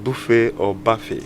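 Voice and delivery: first "buffet" as BOO-fay, second as BUFF-ay; two pronunciations. Shown as a demonstration. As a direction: contrast "buffet" with oo against "buffet" with uh. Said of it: "help me out on this way".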